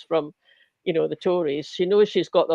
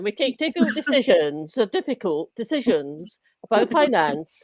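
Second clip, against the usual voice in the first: put-on Rachel Reeves accent. Podcaster mocking the chancellor in a mild Rachel Reeves accent. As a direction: mimic the Rachel Reeves accent lightly, then lose nerve. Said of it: "I'm trying to do my Rachel Reeves accent".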